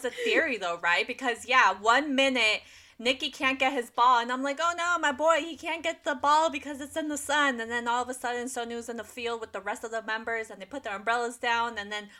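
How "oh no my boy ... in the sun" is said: retold dismay. Acts out her worry for Nikki.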